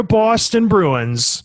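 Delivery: lightly put-on Boston accent; a touch of mock Boston accent, drawn out slowly. Podcast host introducing his co-host's Boston Bruins, playful Boston accent. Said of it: "Great accent".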